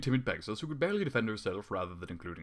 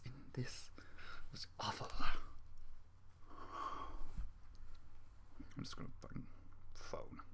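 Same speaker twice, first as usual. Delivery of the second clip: whisper; 10 dB quieter than usual. Real, not acted. Muttering complaint while reading.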